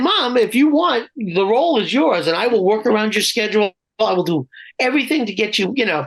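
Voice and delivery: ordinary talk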